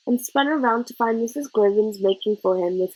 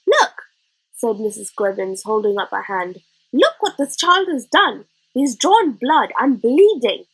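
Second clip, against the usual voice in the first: outraged teacher; 3 dB louder than usual. Acted. Missus Gribbins showing the head her bitten hand, loud and outraged. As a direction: show the wound, outraged.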